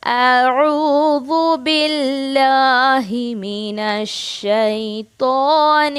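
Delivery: slow, measured tajweed recitation; Quran recitation. Shown as a demonstration. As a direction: chant it slowly for students to copy.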